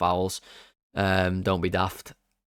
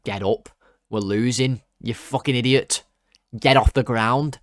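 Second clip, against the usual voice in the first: angry yell at player; 4 semitones higher, 5 dB louder than usual. Real, not acted. Yelling at a player on screen.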